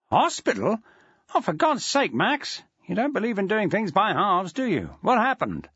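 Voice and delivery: a hint of a fussing headmaster; exasperated headmaster. Felton on the phone to injured Maxwell, exasperated.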